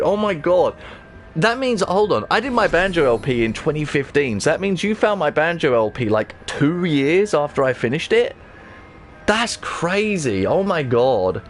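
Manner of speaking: high-pitched, amazed working-out of the dates; astonished disbelief. Real, not acted. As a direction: marvel at it, really taken aback. Works out when viewer found videos.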